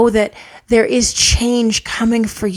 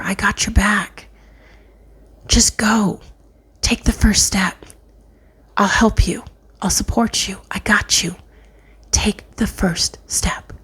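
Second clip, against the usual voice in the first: gentle whispered voice of God; reassuring whisper. Acted. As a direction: whisper it like a comforting promise.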